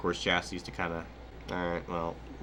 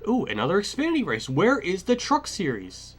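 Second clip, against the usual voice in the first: sarcastic surprise; 10 semitones higher, 5 dB louder than usual. Real, not acted. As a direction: act amazed, dripping sarcasm. Mock surprise at schedule.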